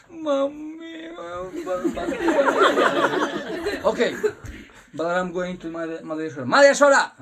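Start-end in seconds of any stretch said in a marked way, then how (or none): 0.1-1.6 put-on very high wailing child; hammed-up crying toddler; child whimpering. Krishna crying to Balaram. 6.5-7.1 very loud high call; big brother shouting for mother; indignant shout. Acted. Balaram confronting Yashoda.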